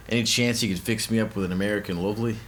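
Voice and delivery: mild attempt at an Australian accent. Shown as a demonstration. Comic reads out a commenter's request in a light Australian accent. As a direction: ask it with a slight Australian accent. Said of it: "Just read that in an Australian accent".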